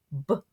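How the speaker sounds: B-oat stretched into sounds; sounded-out word. Shown as a demonstration. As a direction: segment B-oat slowly. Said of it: "Let's try this one".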